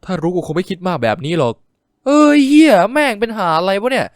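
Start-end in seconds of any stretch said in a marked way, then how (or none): 2.1-4.1 loud, high frustrated swearing; getting upset. A narrator's reading. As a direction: explode in exasperated cursing. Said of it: "เบนเริ่มอารมณ์เสียมากขึ้น".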